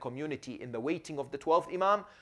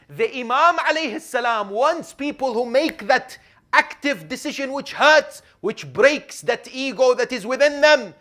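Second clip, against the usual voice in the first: louder and higher, driving the point home; preaching at full force; 9 semitones higher, 10 dB louder than usual. Real, not acted. Preacher urging the congregation, at full force. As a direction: press it on the congregation hard.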